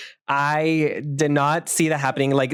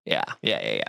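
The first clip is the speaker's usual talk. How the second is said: J K Simmons; 5 dB quieter, faster than usual. Retold or imitated. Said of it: "And he was like".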